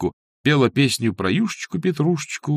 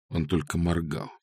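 ordinary delivery, nothing marked

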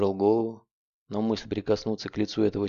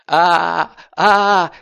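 high sobbing shriek; terrified scream; 9 semitones higher, 12 dB louder, much slower than usual. A narrator's reading. Blum, facing the rifle, screams in sobbing terror. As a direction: howl in pure terror. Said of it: "кричал Блюм".

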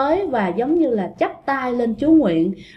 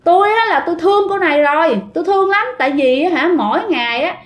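lightly voiced ghost pleading its love, higher; a hint of a headstrong ghost, pitched up; stubborn lovesick ghost; 4 semitones higher than usual. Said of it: "con quỷ này mới trả lời rằng". (giọng con quỷ si tình bướng bỉnh, hơi cao)

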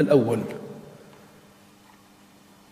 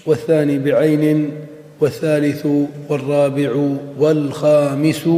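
measured, deliberate reading of a textbook; formal text reading. Acted. Teacher reads the author's text to students, formal measured reading.

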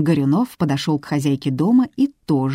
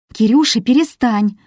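pleading; 6 semitones higher, 4 dB louder than usual. A narrator's reading. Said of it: "попросила жена".

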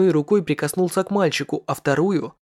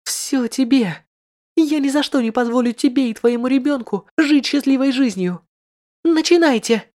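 high and hard, building to a shout; a vicious noblewoman ordering the kill; cruel command; 8 semitones higher, 4 dB louder than usual. Acted. Lady in red orders the rite. (жестокий приказ, переходящий в крик)

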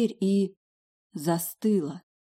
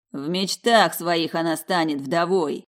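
roared; 4 dB louder, slower than usual. Acted. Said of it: "Труп же взревел".

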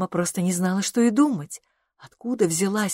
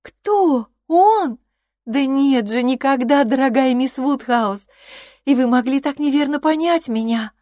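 high yelps of shock, then pleading; a young woman horrified by the mistake; Harriet, dismayed and protesting; 7 semitones higher, 5 dB louder than usual. A narrator's reading. Harriet voiced through the scene. (потрясённая, умоляющая Гарриет)

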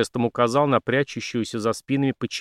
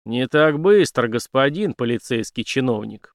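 a slow, louder growl; 4 dB louder than usual. Acted. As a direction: stop him in his tracks. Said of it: "прорычал Дик".

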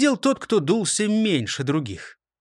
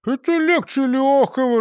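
laughing; 9 semitones higher, 5 dB louder than usual. Acted. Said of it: "рассмеялся Крендель".

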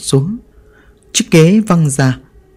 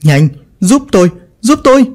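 frantic, higher-pitched plea for help; urgent call for help; 6 semitones higher than usual. Acted. Vinh begging the family to hold the coffin, panicked and urgent. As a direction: grab them now, voice jumping up in alarm.

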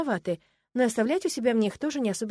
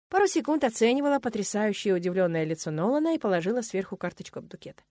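ordinary delivery, nothing marked

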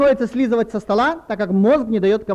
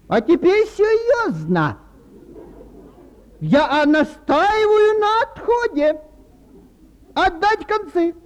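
solemn captain voice; 8 semitones higher, slower than usual. Pretend. Captain gives solemn command.

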